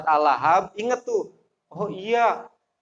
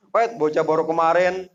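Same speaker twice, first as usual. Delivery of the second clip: arrogant retort. Retold or imitated. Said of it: "itu bahasanya begitu ya".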